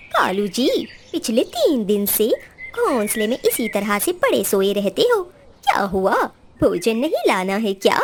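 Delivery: nagging her lazy husband, a touch low; Gori the crow. Acted. Wife crow asks husband why he lies idle, low voice.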